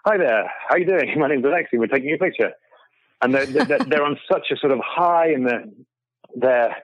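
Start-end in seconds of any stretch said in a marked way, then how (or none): 0.1-2.5 cheery greeting. Retold or imitated. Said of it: "this weirdo me going".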